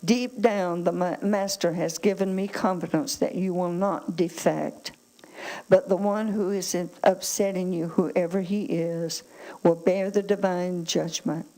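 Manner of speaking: firm, projected Bible reading to a congregation; emphatic scripture reading. Acted. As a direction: read the verses out with weighty emphasis. Resumes reading Scripture aloud.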